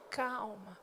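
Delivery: quiet the tantrum; hushed soothing word; soft calm. Shown as a demonstration. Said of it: "Você simplesmente fala".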